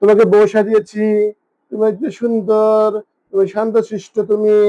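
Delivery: tender, unhurried sweet-talk to a cat; cooing to pet. Real, not acted. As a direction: coo gentle praise to your cat, drawing words out. Cooing praise to her cat.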